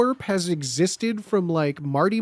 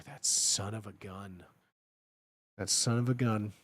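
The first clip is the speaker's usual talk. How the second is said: gruff mock exclamation; 8 semitones lower, 11 dB quieter than usual. Trying the catchphrase, far voice.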